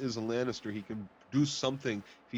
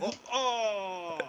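mock cartoon gasp; 9 semitones higher than usual.

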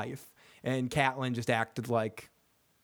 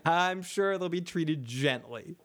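unconvincing reassurance; slower than usual. Retold or imitated. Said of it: "most unconvincing, straight face".

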